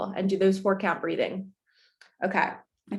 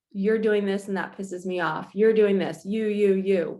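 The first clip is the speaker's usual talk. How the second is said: blaming. Retold or imitated. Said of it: "and not".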